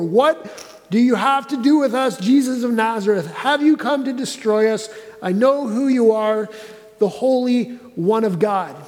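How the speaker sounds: confrontational demon. Retold or imitated. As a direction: confront Jesus like a cornered demon. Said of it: "This is a confrontational moment".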